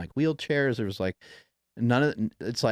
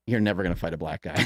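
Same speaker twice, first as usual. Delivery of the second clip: 1 blunt group answer; 4 semitones lower, faster than usual. Retold or imitated. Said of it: "everyone at the same time is like".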